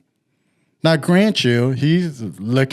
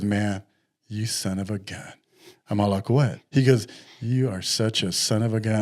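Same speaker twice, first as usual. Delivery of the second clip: low, much softer teasing grumble; mock accusation; 4 semitones lower, 6 dB quieter than usual. Friend on the phone teasing him, hushed mock grumble.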